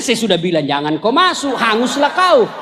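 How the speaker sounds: low, laughing told-you-so. Retold or imitated. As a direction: scold him in a low voice, half laughing. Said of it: "Dia bilang".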